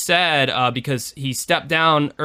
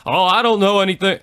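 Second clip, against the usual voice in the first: Bill Clinton impression; 7 semitones higher, 4 dB louder, faster than usual. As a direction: do a hammed-up Bill Clinton brushing it off. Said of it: "my best Bill Clinton impersonation".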